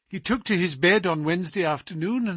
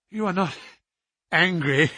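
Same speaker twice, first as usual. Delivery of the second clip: gasping for breath; 4 semitones higher than usual. Acted. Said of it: "gasping for breath".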